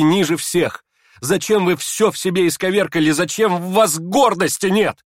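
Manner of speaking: high, loud impassioned reproach; passionate outburst. Acted. Aglaya to the prince, impassioned reproach. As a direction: pour it out in fervour. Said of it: "разразилась Аглая".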